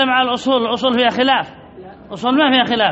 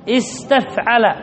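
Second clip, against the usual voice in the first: slow spelled-out pattern; much slower than usual. Shown as a demonstration. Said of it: "ما هو وزنها؟".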